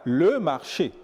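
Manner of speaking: put-on "le marché" in a Togolese accent; accent togolais. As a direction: imitate Togolese French on "le marché". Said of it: "Le Togolais". (« le marché » avec l'accent togolais)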